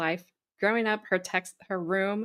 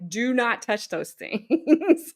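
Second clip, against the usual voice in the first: slow warning broken by a laugh; 2 semitones higher, 4 dB louder, slower than usual. Retold or imitated. Friend warning her pal off rattlesnakes, laughing. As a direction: laugh through a stern do-not-touch. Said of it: "So I was like".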